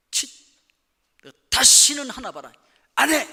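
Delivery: loud, high huffy refusal; sulky angry outburst. Retold or imitated. Pastor acting a volunteer nobody thanked, loud huffy refusal. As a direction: shout it like a slighted volunteer who quits. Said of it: "그럼 대부분 어떻게 반응이 나타나나요?".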